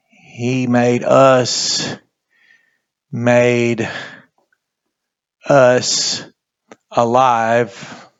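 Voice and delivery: he made us, made us alive, slow with long gaps; word by word. Shown as a demonstration. Teacher to Bible class, spacing out "made us alive" word by word. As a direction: set each word down on its own so students follow. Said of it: "teacher spelling out phrase word by word".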